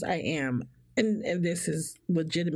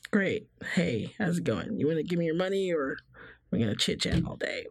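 deadpan. Retold or imitated. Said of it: "I'm like".

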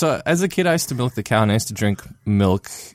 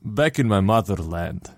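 put-on Russian accent. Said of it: "with a Russian accent for some reason".

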